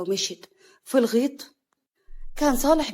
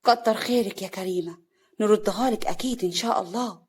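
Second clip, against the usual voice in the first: understated menace; veiled threat. Acted. Hana promising her sister-in-law payback, threatening. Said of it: "هنا بتوعد".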